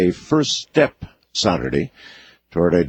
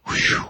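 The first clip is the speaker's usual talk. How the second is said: relief sigh. Retold or imitated. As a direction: breathe out a small imitated sigh of relief. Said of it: "like that".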